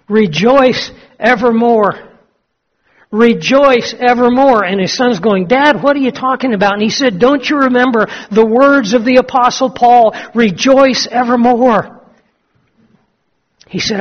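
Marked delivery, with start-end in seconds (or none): 0.1-2.1 higher, slow joyful cry of rejoice; joyful exclaim. Acted. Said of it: "he starts laughing and he says". 3.1-4.6 higher, slow, fuller joyful repeat; joyful exclaim. Acted. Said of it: "he starts laughing and he says". 5.5-6.7 puzzled son. Acted. Son puzzled by his father. 7.2-12.0 joyful quote. Acted. Old Adams quotes Paul joyfully.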